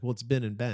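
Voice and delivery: first "Ben" as "bin", second "Ben" with short e; vowel contrast. Retold or imitated. Roommate showing the difference, "Ben and Ben" as bin and ben. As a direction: set "bin" against "ben" in "Ben and Ben". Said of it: "How do you say it?".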